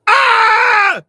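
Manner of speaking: high, loud startled cry; surprised shout. Real, not acted. He reads a viewer comment and yelps in loud surprise.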